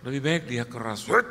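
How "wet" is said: sharp snap. Retold or imitated.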